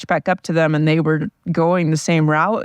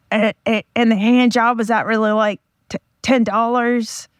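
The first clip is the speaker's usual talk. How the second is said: higher, mock friend voice telling a joke; imitating my friend; 6 semitones higher than usual. To her viewers, retelling a friend's joke in his mocked, higher voice. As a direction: put on a friend's joking voice, pitched up. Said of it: "I'm going to try to impersonate my friend telling the joke".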